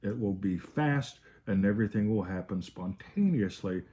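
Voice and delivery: drawn-out, plodding request; painfully slow parody of a linear thinker; slow mocking imitation. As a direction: stretch each word out, mimicking an over-thinker. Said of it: "spoken slow".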